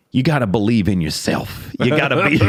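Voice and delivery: loud, high mock-drunk declaration; Stetson Bennett, drunk. Drunk quarterback giving advice on morning TV, mock-drunk. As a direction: imitate a tipsy champion preaching self-belief. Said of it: "That's the alcohol talking right there".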